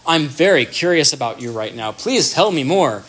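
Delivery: spelling out every word of curiosity; spelled-out interest. Shown as a demonstration. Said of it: "in some super explicit way".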